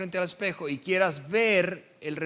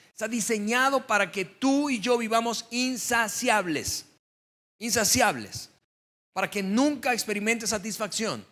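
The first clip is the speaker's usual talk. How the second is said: preaching at force; 4 semitones higher than usual. Acted. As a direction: build the sermon to its climax. Sermon climbs to its climax. (predicación con fuerza creciente)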